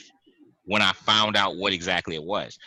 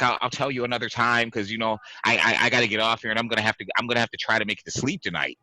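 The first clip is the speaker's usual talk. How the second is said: imitating spooked Mike; 2 semitones higher, faster than usual. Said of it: "'Cause this is how he's talking".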